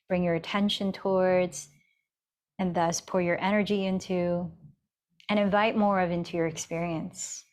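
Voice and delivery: calm, even yoga-teacher guidance with long pauses; guided meditation. Real, not acted. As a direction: guide them gently inward, leaving space between phrases. Leads a seated meditation.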